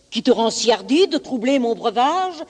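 a touch of anger from an offended beast; mild rage. Acted. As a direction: demand an answer, mildly enraged. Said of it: "dit cet animal plein de rage".

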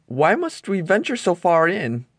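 nervous first mate asking anxiously; Smee voice. A narrator's reading.

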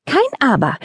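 "Kein Aber" high, falling, stern; scolding. Acted. Wife hare cutting off her husband, scolding. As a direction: cut him off with "Kein Aber". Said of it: "schimpfte sie".

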